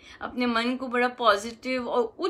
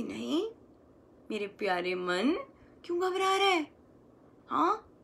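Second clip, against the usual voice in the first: gentle coaxing. Shown as a demonstration. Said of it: "ऐसे बात करनी है अपने मन से".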